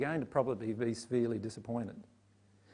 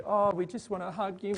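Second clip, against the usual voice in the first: cooing pity; 5 semitones higher than usual. Retold or imitated. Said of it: "projecting at Mary".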